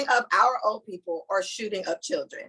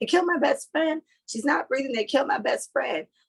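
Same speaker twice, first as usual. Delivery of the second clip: put-on high, tearful crying little girl voice; 6 semitones higher than usual. Retelling what a crying little girl told a paramedic: imitating a crying girl. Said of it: "she's crying".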